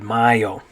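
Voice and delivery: mayo said MAH-yo; Spanish mayo, first syllable like MY; Spanish pronunciation. Shown as a demonstration. Teacher confirms the learners' answer, Spanish pronunciation. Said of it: "in Spanish you'd say?".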